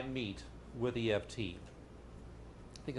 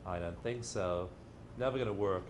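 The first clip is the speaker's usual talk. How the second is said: doubting demon; 5 semitones lower, 4 dB quieter than usual. Retold or imitated. Little demon on the shoulder, low and sneering. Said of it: "a little demon sitting there saying".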